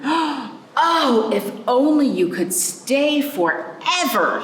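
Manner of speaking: put-on high, longing child's wish; a little girl begging the rainbow to stay; child voice, wishful and high; wistful girl's voice. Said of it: "she said".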